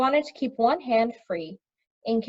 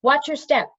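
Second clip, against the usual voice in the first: shouted warning; 5 semitones higher, 5 dB louder than usual. A narrator's reading. Shouting over the waterfall.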